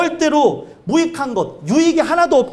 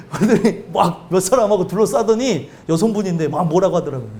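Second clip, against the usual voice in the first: ordinary delivery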